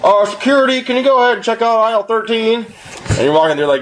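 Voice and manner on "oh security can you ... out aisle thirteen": high, level mock intercom call; store radio announcement. Store employee calling security over the radio, mock announcement. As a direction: imitate a staffer paging over the store radio. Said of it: "you go to the radio".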